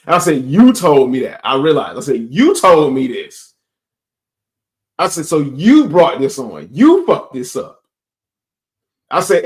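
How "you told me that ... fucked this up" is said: retold angry confrontation.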